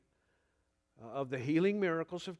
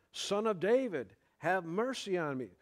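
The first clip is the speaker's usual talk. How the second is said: crying out; 4 semitones higher than usual. Retold or imitated. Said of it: "he cried out all the more".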